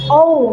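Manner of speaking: ঔ with a fully rounded glide. Shown as a demonstration. Trainer repeats O for teachers, rounded ঔ. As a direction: round the lips completely for "ঔ". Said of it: "মুখটা একদম গোল করে ফেলতে হবে".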